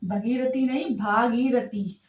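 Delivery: भगीरथी short, then भागीरथी with a long stressed भा; slow contrast. Shown as a demonstration. Teacher contrasting two forms for students, slow and deliberate. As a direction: set भगीरथी against भागीरथी, leaning on the long भा. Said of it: "भागीरथी नहीं होता".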